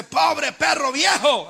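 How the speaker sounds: retold heckler's shout; imitated taunting yell. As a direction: call the insult out slowly, as Simeí yelling at David. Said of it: "le comienza a gritar".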